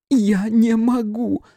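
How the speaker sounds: high, very slow resignation; doomed. A narrator's reading. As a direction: repeat it hopelessly. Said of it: "обречённо повторила Флора".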